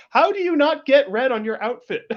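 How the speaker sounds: high, loud exclamation breaking into laughter; loud chatter. Acted. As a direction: exclaim it across the room, amused. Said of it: "have the loudest conversation".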